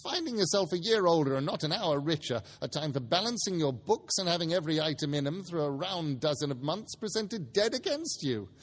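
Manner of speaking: put-on a crabby old miser scoffing at Christmas; scornful Scrooge. Scrooge sneering at his nephew, lightly voiced crabby miser. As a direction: sneer at every merry word.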